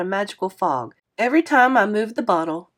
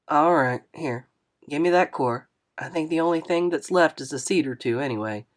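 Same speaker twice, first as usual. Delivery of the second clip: put-on a touch lower, friendly older man apologizing; lightly voiced kindly driver, a bit lower; 3 semitones lower than usual. Narrator voices Mister Lewis.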